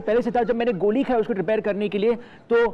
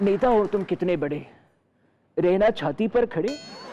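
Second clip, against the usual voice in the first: mock poem recital. Reciting his dad's satirical poem to the host, mock grandly. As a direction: recite like a stage poet. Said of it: "एक कविता पेश करने जा रहा हूँ".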